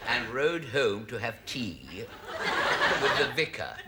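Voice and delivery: deliberate storybook reading with long pauses; measured, innocent bedtime-tale telling; story narration. Acted. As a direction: improvise a prim ending, picking each phrase. Invents an innocent ending.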